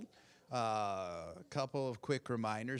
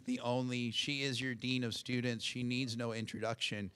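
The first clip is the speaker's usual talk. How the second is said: usual speaking voice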